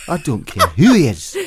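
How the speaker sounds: indignant Glaswegian; Glaswegian accent. Retold or imitated. Still in a Glaswegian accent, defiant about the host. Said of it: "the Glaswegian came out of me".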